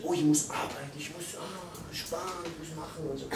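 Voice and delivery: half-sighed mock complaint about chores; mock groaning. Preacher mimics the world complaining about having to work, mock groaning. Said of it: "wir denken auf die Welt".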